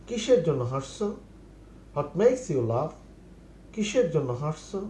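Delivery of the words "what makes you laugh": very slow, each word laid out for learners; slow model phrase. Shown as a demonstration. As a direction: spell it out slowly for the class. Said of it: "teacher repeats model phrase". (ধীরে ধীরে শেখানোর ভঙ্গিতে)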